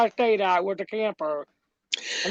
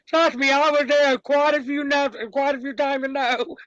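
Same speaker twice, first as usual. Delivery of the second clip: laughing; 5 semitones higher than usual. Real, not acted. Laughing while recalling camper.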